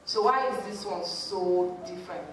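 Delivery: offhand retold questioning, dropping away at the end; casual dismissal. Friend questioning why this is a big deal, casually. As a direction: imitate a friend making little of it. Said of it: "saying this so casual".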